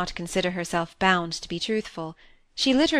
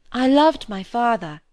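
louder, heartfelt insistence on the truth; forceful sincerity; 5 semitones higher, 7 dB louder than usual. Acted. Cynthia insisting to Molly she loved her father, forceful and sincere. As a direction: press the truth of it hard, meaning every word. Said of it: "with the force of truth in her tone".

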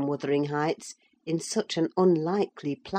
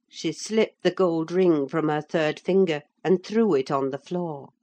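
ordinary delivery

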